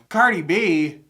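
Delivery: startled discovery, pitch jumping up; surprised. Real, not acted. Reactor just learning who is featured, surprised.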